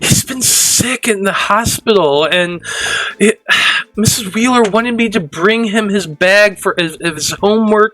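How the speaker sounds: put-on high, worried girl's voice; teen girl character. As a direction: keep the high schoolgirl voice, anxious.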